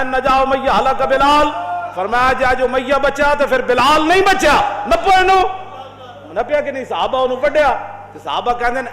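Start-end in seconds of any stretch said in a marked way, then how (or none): 0.0-4.8 fierce declaration. Retold or imitated. 4.9-5.4 sudden high, loud command shout; battle shout. Retold or imitated. Bilal shouting to companions to seize Umayya, loud and high.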